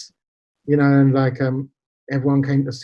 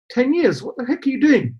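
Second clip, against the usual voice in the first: higher mock outrage at the doctor; retold disbelief; 9 semitones higher than usual. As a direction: replay the shock at "Ten years?" pitched up. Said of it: "And I was like".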